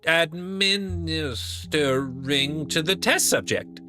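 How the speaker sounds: put-on flustered young assistant. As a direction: apologise in a panicked rush. Assistant remembers the sample.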